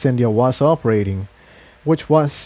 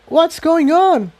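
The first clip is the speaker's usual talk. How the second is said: much higher and slow, puzzled; bewildered Tiptoe; slower than usual. Acted. Tiptoe peers down at the frozen army, high and slow. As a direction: stretch the question out in wonder.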